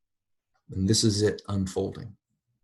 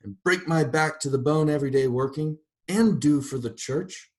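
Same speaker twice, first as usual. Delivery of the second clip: higher, louder indignant complaint; aggrieved rant; 6 semitones higher, 5 dB louder than usual. A narrator's reading. Mrs. Turpin arguing with God about her worth, indignant. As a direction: list your good deeds, offended.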